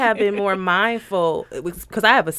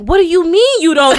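higher retold parental retort; escalating exasperation; 5 semitones higher, 4 dB louder than usual. Mother retelling how calm escalates with her son, exasperated. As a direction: let the patience start to slip. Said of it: "it starts from here and then we get here".

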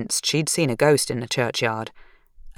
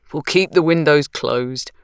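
smiling. Acted. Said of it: "Roshan said with a smile".

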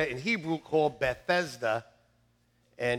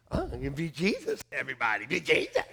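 Holy Spirit voice; 3 semitones lower, 5 dB quieter, faster than usual. Retold or imitated. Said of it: "the Holy Spirit says".

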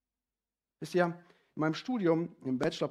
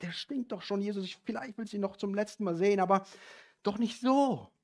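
Martha voiced; 6 semitones higher than usual.

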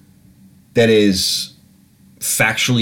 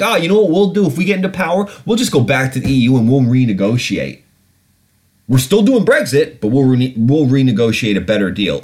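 mocking Jeremy Corbyn. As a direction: parody a glib politician's promise. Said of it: "he's like".

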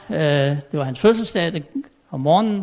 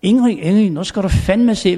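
retold excited shout; 3 semitones higher, 4 dB louder than usual. King bursting into the queen's room to show his gift, excited shout. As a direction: burst in shouting her name with glee. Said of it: "og så råber han".

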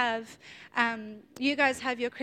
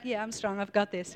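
mock cool bravado; 4 semitones lower, 4 dB quieter than usual. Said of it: "trying really cool to look like".

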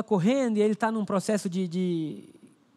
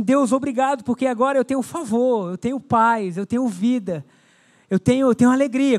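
louder, joyful thanks to God; thankful cry; 3 semitones higher, 4 dB louder than usual. Acted. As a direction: build the thanks to a loud peak. Thankful prayer preached loud.

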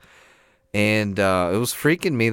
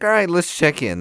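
imitating the dentist; 10 semitones higher, 6 dB louder than usual. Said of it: "he's like".

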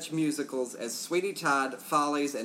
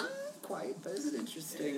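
whisper; 6 semitones higher, 7 dB quieter than usual. Real, not acted. Whispered teasing aside.

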